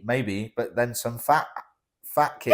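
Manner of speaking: giggling through the tease; laughing. Real, not acted. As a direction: laugh breaking into the words. Teasing, laughing.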